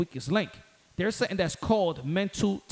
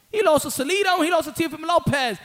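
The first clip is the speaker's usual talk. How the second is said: heated; 7 semitones higher, 5 dB louder than usual. Real, not acted. Heated argument.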